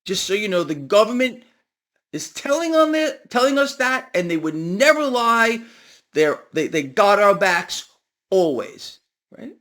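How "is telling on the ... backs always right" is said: raised, emphatic mock trust; sarcastic assurance. Commentator pretending the government never lies, sarcastic. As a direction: pitch it up as if vouching for them, tongue in cheek.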